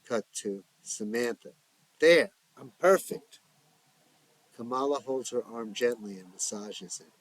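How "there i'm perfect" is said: dreamy insistence. Acted. Drugged Samantha insists happily.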